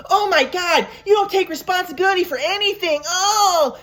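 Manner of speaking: crying mom. Retold or imitated. Mother accusing her son of dodging responsibility, tearful and high. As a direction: wail it like a weeping, accusing mother.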